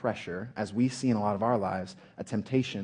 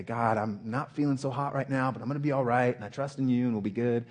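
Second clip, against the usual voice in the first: mock offhand, run-on prayer; breezy prayer; 3 semitones higher than usual. Preacher imitates a prayer Jesus doesn't pray, breezy and casual. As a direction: rattle it off like a casual check-in.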